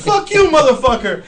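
high-pitched imitation of angry cursing; pissed off. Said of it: "Tommy is getting pissed".

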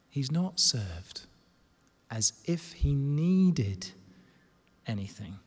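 low, drawn-out, pausing between phrases; slow solemn restatement. Real, not acted. Preacher restates the verse against common sayings, slow and solemn. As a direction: press the verse home, falling softly away.

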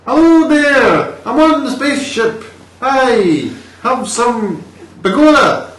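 very high, loud, drawn-out Danish-Irish mash-up; Danish-Irish accent. Shown as a demonstration. Replicating the film actor's voice, hammed-up Danish-Irish accent. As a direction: belt out a silly Danish accent turning Irish. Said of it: "if you have a Danish to an Irish".

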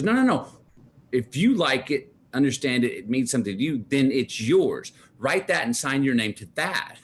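high, insistent mom voice, slowing on key lines; imitating mom. Mom telling son the poem is his, high and insistent. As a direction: coax him like a sure-of-herself mom.

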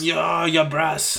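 put-on half-hearted British accent; botched British accent; attempted British. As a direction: have a clumsy go at sounding British. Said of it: "I was trying to go British".

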